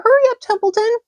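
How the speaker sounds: high, loud urging; high loud impatient pig. A narrator's reading. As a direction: hurry him loudly. Wilbur urges.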